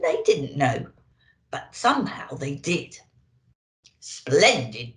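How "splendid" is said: lower, louder hearty Santa; booming Santa. A narrator's reading. Santa pleased the sleigh is loaded, booming. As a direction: boom it out like jolly Santa. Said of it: "boomed Santa".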